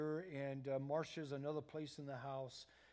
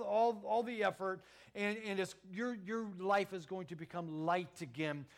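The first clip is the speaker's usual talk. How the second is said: fervent preaching; 3 semitones higher, 4 dB louder than usual. Acted. Preacher voicing Jesus, rising fervor.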